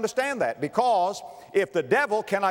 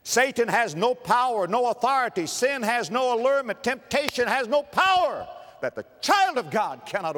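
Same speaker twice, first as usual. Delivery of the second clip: preaching shout; 6 semitones higher than usual. Real, not acted. Preacher proclaiming to the church, ringing shout. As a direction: ring it out to the congregation, building.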